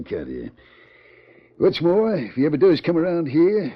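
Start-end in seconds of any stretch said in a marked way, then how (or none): 1.6-3.7 forceful vow. Acted. Sheriff vows to arrest outlaw.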